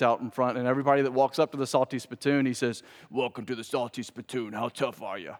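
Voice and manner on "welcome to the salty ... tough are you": bouncer impression. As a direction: size up the newcomer like a club bouncer. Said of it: "that actually was a good impression".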